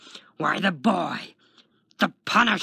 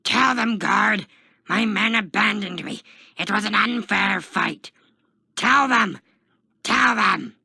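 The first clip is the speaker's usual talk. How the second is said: high, very loud pleading shout; desperate yelling; 8 semitones higher, 10 dB louder than usual. A narrator's reading. Taskmaster begs the guard to back him up, yelling. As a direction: yell to be heard over a crowd. Taskmaster screams over the crowd.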